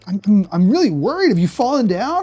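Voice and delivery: high, mock-jokey voice with fake laughs; forced humor. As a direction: ham up a lame joke, chuckling at yourself. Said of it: "People who are not funny try to shoot for humor".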